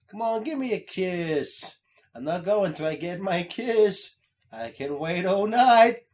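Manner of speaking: lightly voiced turtle, slow and insistent; little turtle. Little turtle pesters for a kiss, slow insistent demand.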